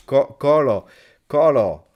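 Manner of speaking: high, loud cry of the name; loud calling out. Real, not acted. Streamer calls out Colo who unsubscribed, loud. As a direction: call the name out in dismay.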